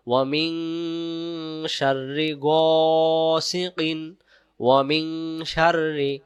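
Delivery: slow chant with nasal মিং; Quran recitation. Shown as a demonstration. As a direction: recite slowly with ghunna. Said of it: "এক আলিফ".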